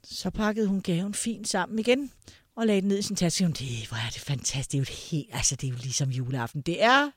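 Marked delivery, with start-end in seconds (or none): 3.5-6.6 lower, softer granny delight; a hint of a dotty grandma gushing; grandmother's voice. Grandma delighted by the lipstick again, lightly voiced. 6.6-7.1 mildly tart reminder; a touch of sharpness, holding back; a bit pointed. Retold or imitated. Grandchildren reminding grandma it's Christmas Eve, a bit pointed. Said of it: "sagde vi lidt spidst".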